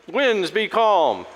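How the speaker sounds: slow, grand mock command to the winds. Preacher jokes about trying it himself, mock-commanding. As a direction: comically order the weather about.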